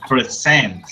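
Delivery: "Present" as a verb, stressed on the last syllable; stress on second syllable. Shown as a demonstration. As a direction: say "Present" as pre-SENT. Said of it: "a verb".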